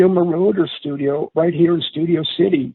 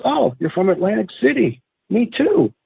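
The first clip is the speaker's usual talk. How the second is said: suddenly friendly; 7 semitones higher than usual. Retold or imitated. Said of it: "turns to a friendly guy".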